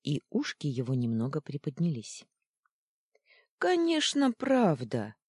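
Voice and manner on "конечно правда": "правда" said firm and sure, falling; confident reply. Acted. Луна с Анитой хором уверяют Фитчика, твёрдо. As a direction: reassure him decisively. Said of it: "хором ответили Луна с Анитой".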